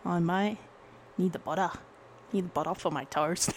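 playful attempt at a New Zealand accent; mock New Zealand accent. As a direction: try a Kiwi accent. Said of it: "New Zealand".

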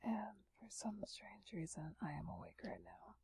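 sleepy late-night whisper. Real, not acted. ASMR whisper throughout.

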